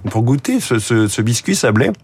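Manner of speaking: parle la bouche pleine; words round a mouthful of biscuit. Real, not acted. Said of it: "désolé de parler la bouche pleine". (la bouche pleine en mangeant)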